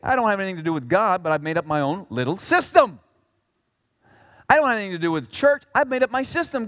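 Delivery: quick mock self-made believer; a hint of smug voice; paraphrased dismissal; imitating them. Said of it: "They're saying".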